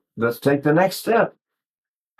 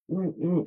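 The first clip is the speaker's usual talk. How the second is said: soft closed-mouth "mm, mm"; small muffled sob held in; stifled sob; 3 semitones higher, 10 dB quieter than usual. Shown as a demonstration. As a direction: demonstrate hiding a cry, very quietly. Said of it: "hide and stifle the, the, the sobbing".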